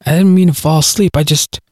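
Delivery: hurried apology that trails away; trailing off. Acted. Galen apologizes to the silent man, hurried then trailing off. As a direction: rush it, then let it fade out. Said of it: "his voice trailing off".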